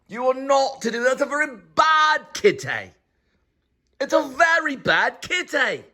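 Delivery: scolding the cat. Real, not acted. Owner scolding the kitty for eating the pasta, exasperated.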